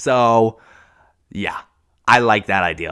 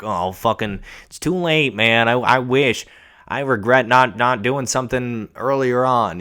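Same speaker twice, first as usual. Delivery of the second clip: higher, louder imagined lament; mock regret; 3 semitones higher, 3 dB louder than usual. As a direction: lightly act out someone lamenting it's too late. Acting out a future regretful person.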